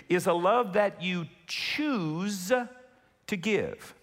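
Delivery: slow, deliberate, each word spaced; said really slowly. Shown as a demonstration. Pastor repeating for the congregation, really slowly. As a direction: lay it down slowly so it sinks in. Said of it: "I wanna say this really slowly".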